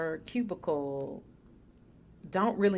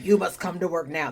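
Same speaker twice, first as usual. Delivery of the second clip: boomer voice; 5 dB louder than usual. Retold or imitated. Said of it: "That is my boomer voice".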